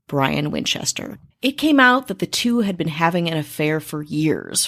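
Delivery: even, scripted storytelling read; true-crime narration. A narrator's reading. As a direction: narrate the case like a podcast script. Reads the scripted case narrative.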